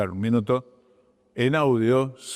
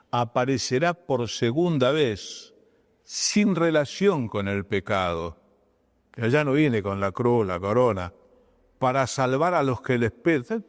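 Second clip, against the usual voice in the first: slow careful reading. Shown as a demonstration. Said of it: "yo no lo puedo leer corriendo".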